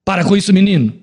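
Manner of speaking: a light stern-father telling-off; mild scolding father. Acted. Preacher acting a father scolding his son, mildly stern. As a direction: scold the boy gently, like a dad. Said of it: "O pai não ralha".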